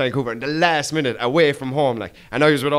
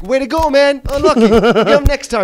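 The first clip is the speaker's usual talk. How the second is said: high, bright cheer, louder; mock cheering American fan; 12 semitones higher, 6 dB louder than usual. Vancouver crowd clapping off a sent-off diver, mimicked high. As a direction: cheer him off like a cheesy supportive fan.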